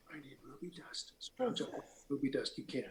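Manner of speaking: hushed, secretive whisper in character voice. Whispering a secret request to another character while pretending to scold others: in-character whisper. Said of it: "I kind of whisper to him".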